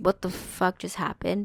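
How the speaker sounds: imitated frazzled, flustered tone. Retelling the moment the dogs were pulled off: imitating being frazzled. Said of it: "And I'm frazzled 'cause I was like".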